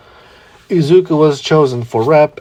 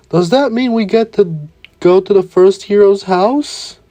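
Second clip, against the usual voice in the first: high, eager voice, much higher; eyes sparkling; 8 semitones higher than usual. Acted. Kirishima thrilled about visiting the hero's house, high and eager. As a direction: bubble over with excitement. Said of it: "with his eyes sparkling".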